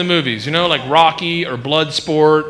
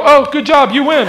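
mock onlookers cheering; 8 semitones higher, 4 dB louder than usual. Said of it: "are gonna go".

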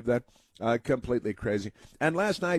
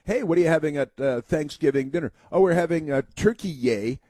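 higher, louder silly dinner chat; mocking imitation; 4 semitones higher, 4 dB louder than usual. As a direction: play a mock family conversation, hammed up. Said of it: "broadcasters can't pronounce anymore".

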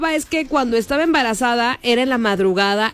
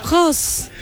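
ghostly wail; 4 semitones higher than usual. Retold or imitated. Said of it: "Nomás escuchó".

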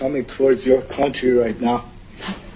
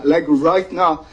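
crying. Real, not acted. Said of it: "but I'm, like, crying".

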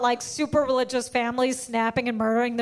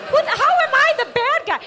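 high laughing outrage; laughing disbelief; 11 semitones higher, 6 dB louder than usual. Real, not acted. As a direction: laugh through the question. Laughing at own story.

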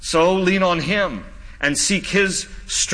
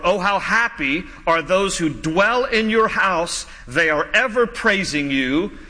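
scripture reading; slower than usual. Acted. Reading scripture slowly aloud.

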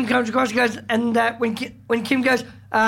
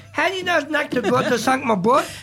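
put-on light Scottish accent, Billy Connolly style; a hint of Scottish accent; 3 semitones higher than usual. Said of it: "you're doing a Scottish accent there".

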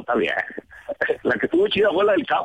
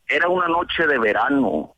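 poem recital opening low, lifting at the end; mock poetry recital; 4 semitones lower than usual. Radio guest launching into his own poem, recited. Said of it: "déjame aviento una poesía ahorita".

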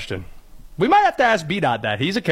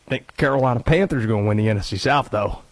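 mock Cajun accent; 7 semitones lower, faster than usual. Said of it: "Listen to this accent, brother".

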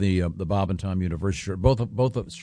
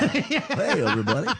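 game show host; 7 semitones higher than usual. Pretend. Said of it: "sounds like a game show host".

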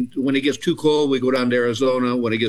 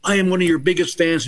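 higher, gushing fan imitation; retold fan gush, pitched up; starstruck older lady; 5 semitones higher than usual. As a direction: lightly imitate an adoring fan. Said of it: "there was an older woman".

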